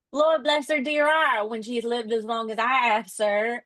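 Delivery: hammy British working-class nurse, badly faked; terrible British accent. Nurse in Oliver Twist exclaiming about her children, in a shaky-attempt British accent. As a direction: attempt a British accent that comes out a little Southern. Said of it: "I'm terrible at a British accent".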